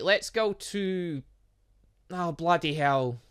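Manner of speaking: ordinary talk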